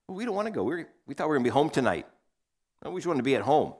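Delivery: high whiny complaint; grumbling kids. Retold or imitated. Sons grumbling to dad about going to town, high whiny. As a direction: whine like reluctant kids who don't want to leave. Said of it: "none of the children were excited".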